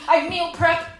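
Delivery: loud, pumped-up boasting; hammed-up macho bragging; gym bro brag. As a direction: show off like a meathead.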